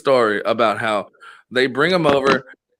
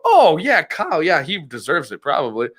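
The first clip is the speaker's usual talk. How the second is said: breezy, couldn't care less about the cousin; casual dismissal; 3 semitones higher than usual. Retold or imitated. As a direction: shrug it off as no loss. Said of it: "and I go".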